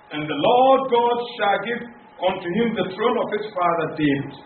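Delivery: scripture reading. Acted. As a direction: proclaim the verse to the congregation. Reads Luke 1:31-32 aloud. (feierliche Bibellesung, laut und betont)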